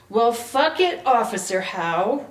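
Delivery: woman brushing off the officer, sneering loud; sneered. A narrator's reading. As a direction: spit it at him with contempt. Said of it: "Ribby sneered".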